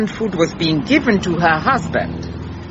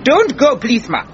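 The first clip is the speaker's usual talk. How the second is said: grab her before she leaves; urgent plea; 4 semitones higher than usual. Acted. Detective begging cook to stay.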